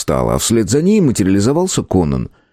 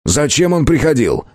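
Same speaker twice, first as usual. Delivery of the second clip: higher, sharp demand; bark; 7 semitones higher than usual. Acted. Conan barks at the shopkeeper. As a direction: snap the question at him. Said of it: "рявкнул Конан".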